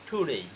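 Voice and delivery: টুডেই as "thu-dey", puff on T and gliding end; airy T, "ey" ending in টুডেই; aspirated pronunciation. Shown as a demonstration. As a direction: breathe out on the T of টুডেই, glide to i. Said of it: "টুডে কী বলবো আমরা".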